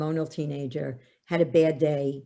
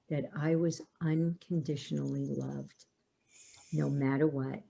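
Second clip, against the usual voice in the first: sincere daughter; 7 dB quieter than usual. Retold or imitated. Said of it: "she said to me".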